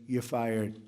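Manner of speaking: low, mock-gentle dismissal. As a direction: say it gently, pitched well down. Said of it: "very gently say".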